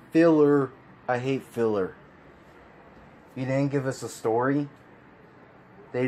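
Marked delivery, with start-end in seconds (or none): 0.1-0.7 exasperated yell. Real, not acted. Frustrated ranting about filler.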